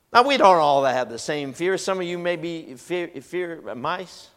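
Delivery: usual speaking voice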